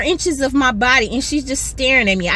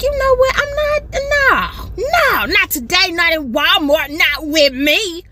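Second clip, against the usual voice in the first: defiant resolve; 5 semitones higher than usual. Retold or imitated. Telling herself not today.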